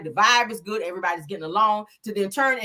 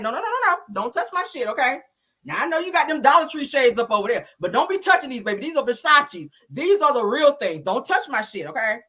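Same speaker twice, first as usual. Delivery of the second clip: higher, sassy put-down; sassy scolding; 3 semitones higher than usual. Retold or imitated. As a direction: tell her off, higher and sassy. Mel scolds Tisha, voiced.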